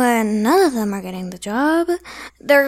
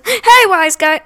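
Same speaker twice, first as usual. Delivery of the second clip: louder, higher yell out a window; mock yell out window; 6 semitones higher, 8 dB louder, slower than usual. Kid retelling a man yelling at a driver, louder. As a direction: call out like an annoyed driver. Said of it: "And he said".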